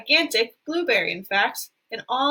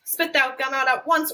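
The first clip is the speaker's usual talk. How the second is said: ordered; 3 semitones higher, 3 dB louder than usual. Acted. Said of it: "ordered Mister Beauregard".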